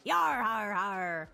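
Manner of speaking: salty sea dog with a chuckle; gruff old fisherman. Acted. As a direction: lay on the pirate talk. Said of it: "that stupid voice".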